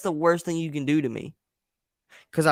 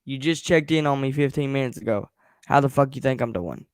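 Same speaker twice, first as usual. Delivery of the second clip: irritated snap; 4 dB louder than usual. Real, not acted. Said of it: "I'm really pissed off right now".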